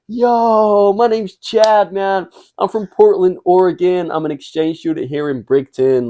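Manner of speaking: put-on high, slow surfer-dude American accent; fake American accent. British lad putting on an American accent to strangers. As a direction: play an American exchange student with a put-on American accent. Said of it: "we made a character for me that I'm Chad from Portland, Oregon".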